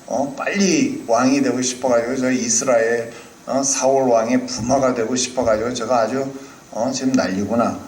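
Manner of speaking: put-on older brother Eliab scolds David, low and scornful. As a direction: sneer down at the little brother. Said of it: "큰 형이 엘리압이 보고 뭐라 그러는".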